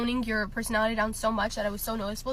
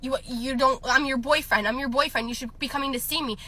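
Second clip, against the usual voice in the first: put-on whiny boyfriend voice, a bit louder; mocking boyfriend; 2 semitones higher, 3 dB louder than usual. Girl imitating her clingy boyfriend. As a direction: mimic the needy boyfriend. Voicing controlling boyfriend's demands.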